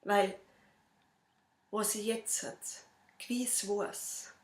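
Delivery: measured verse delivery with long pauses; poem recital. Acted. Reciting own poem to an audience, measured poem recital. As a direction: recite the rhymes line by line, lightly dramatised.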